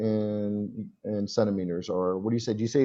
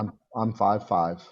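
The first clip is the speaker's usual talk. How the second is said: slowed example for a learner; deliberate teacher's demonstration; model answer. Shown as a demonstration. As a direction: say it slowly as a phrase to copy. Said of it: "You would say".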